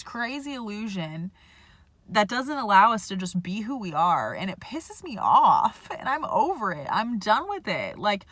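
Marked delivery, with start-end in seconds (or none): 4.3-8.0 angry. Real, not acted. Ranting about society's expectations.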